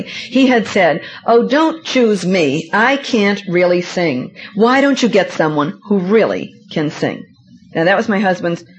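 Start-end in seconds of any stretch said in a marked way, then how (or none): 1.3-7.2 slow, self-deprecating mock modesty; husband imitated turning down the singing invitation, mock humble; false humility. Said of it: "in his false humility".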